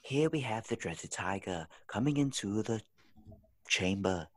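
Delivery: lightly put-on British documentary narration; British documentary accent. Shown as a demonstration. Friend showing his best accent, British documentary narrator. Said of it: "British documentary accent".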